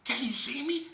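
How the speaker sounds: high, loud sing-song mockery; mocking taunt. Woman mocking the speaker's thick glasses, high and loud. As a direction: tease him about his glasses. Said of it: "She said".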